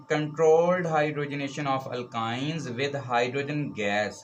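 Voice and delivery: slow, deliberate dictation of an English definition, word by word; teacher reading the definition aloud for students to copy, slowly dictated. Shown as a demonstration.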